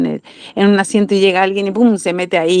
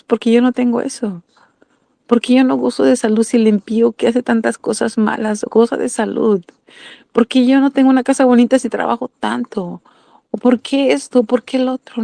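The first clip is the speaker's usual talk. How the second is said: higher-pitched questioning, acting out a complaint; voiced complaint; 4 semitones higher than usual. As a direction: voice the "why not me?" grievance, pitched up. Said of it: "y decimos". (queja imitada, en tono más agudo)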